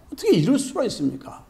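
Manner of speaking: fast, pushy demand, leaning on 어떻게; heated protest. Acted. Worker confronts the master, fast and heated. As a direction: rattle off 어떻게 이럴 수가 있습니까 in a rush of grievance. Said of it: "막 원망하고 따져대는 거예요".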